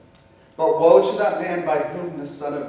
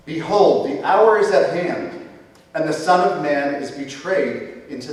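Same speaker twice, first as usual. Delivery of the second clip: urgent call; 3 semitones higher, 3 dB louder than usual. Acted. Jesus rouses the sleeping disciples, urgent raised call. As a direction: startle them awake with the news.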